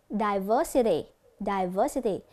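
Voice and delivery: "Diversity" with VER stressed; stress on second syllable. Shown as a demonstration. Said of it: "Nhấn ở âm thứ hai".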